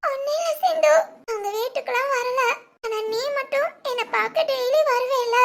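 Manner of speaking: put-on child's voice choked with tears, trying to hide it; tearful boy pleading with his friend; crying. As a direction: sob through the words while denying anything is wrong. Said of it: "சித்து, என்ன அழுகுற?".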